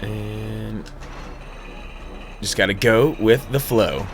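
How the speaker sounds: ordinary talk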